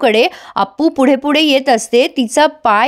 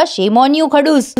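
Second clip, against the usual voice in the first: slow mock scolding; much slower than usual. Wife scolds husband in a quarrel.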